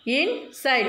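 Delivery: "In, side" as two separate beats; split into syllables. Shown as a demonstration. Teacher showing children two syllables, "In, side" said separately. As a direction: break "In, side" apart between the syllables. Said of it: "We want to separate like this only".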